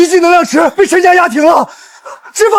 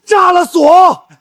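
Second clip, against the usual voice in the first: urgent shout; much slower than usual. Acted. Subordinate cries out the plan.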